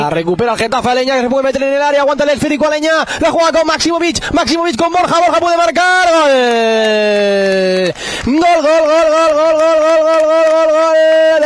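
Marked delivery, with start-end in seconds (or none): 0.9-6.1 rising excitement. Real, not acted. Goal chance building, commentator. 6.1-11.4 long shouted gol, high and loud; breakneck goal commentary. Real, not acted.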